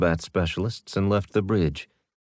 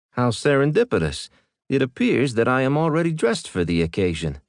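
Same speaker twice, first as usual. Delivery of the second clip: dry sarcasm; 5 semitones higher than usual. Acted. Dank's dry reply.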